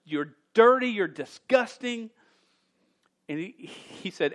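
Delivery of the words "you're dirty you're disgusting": disgusted rebuke. Retold or imitated. Preacher paraphrases Stephen scolding the crowd in disgust. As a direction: spit out the insult. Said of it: "goes on to say".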